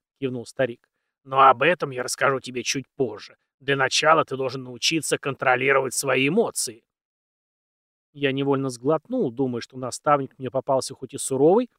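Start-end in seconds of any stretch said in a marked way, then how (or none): 1.2-6.8 put-on very old man. Old mentor continues.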